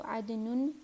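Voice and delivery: عدنن said adnun; "un" ending. Shown as a demonstration. Teacher listing three forms, عدنن ending in "un". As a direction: end عدنن in "nun". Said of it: "تینوں طرح سے فلی flexible".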